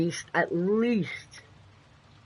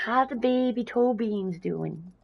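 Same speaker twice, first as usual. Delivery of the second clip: raised, slow cooing pet voice; 5 semitones higher, slower than usual. Real, not acted. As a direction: coo it like to a tiny kitten. Cooing over the kittens.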